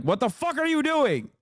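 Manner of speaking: high, incredulous mock outburst; outraged American. Streamer voices Americans fed up with foreign wars, high incredulous yelp. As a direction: squeal it like a baffled voter.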